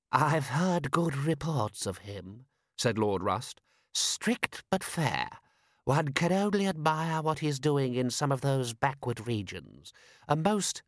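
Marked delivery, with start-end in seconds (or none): 0.1-2.5 higher, slow aristocratic character voice; pompous lord. Acted. Lord Rust praising a foreign prince, pompous and approving. 3.9-10.8 higher, slow aristocratic character voice; pompous lord. Acted. Lord Rust praising a foreign prince, pompous and approving.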